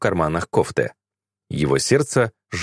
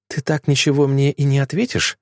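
gently voiced, higher-pitched young woman; tender, quiet voice; 6 semitones higher than usual. A narrator's reading. Girl asks the stunned man for an answer, tenderly. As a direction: ask it delicately, in a light tender voice. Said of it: "послышался нежный тихий голос".

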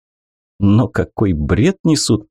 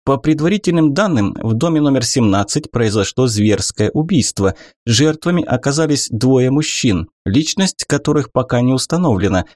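rattling off quickly; 4 semitones higher than usual. Acted. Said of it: "затараторила девушка".

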